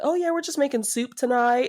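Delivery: lightly voiced breezy character, amused; mock-casual Delia. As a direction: play it breezy, about to crack up. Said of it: "And Delia calls it".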